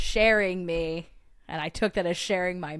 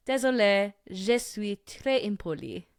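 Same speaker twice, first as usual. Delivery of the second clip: French accent. Shown as a demonstration. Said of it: "I also learned how to say".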